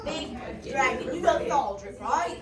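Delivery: put-on light Scottish accent on orders. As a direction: talk to the pixie in Scottish. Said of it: "to Scottish to Cagney English".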